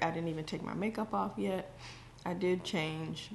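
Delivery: chewing while talking; mouth full. Real, not acted. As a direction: talk through a bite of food. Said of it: "I can't talk with my mouth full".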